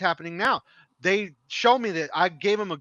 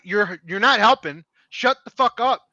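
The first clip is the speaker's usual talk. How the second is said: angry retort; 6 dB louder than usual. Retold or imitated. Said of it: "I'm like".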